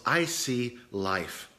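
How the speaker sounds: slow, soft, earnest declaration; sincere. Retold or imitated. Doctor answering a patient who complains about pills, sincere. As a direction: say it slowly and softly with sincerity. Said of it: "just with sincerity".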